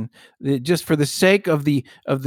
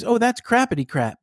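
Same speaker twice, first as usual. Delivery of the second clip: playful silly phrase; 7 semitones higher than usual. Retold or imitated. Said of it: "what came out of my mouth".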